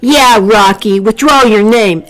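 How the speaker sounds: copying a bossy tone, squirrel-like; squeaky squirrel. A narrator's reading. Squirrel A J backs up Bruce in a squirrely copy-cat tone. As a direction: squeak it out, aping the big bully. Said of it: "squeaky, squirrely tone".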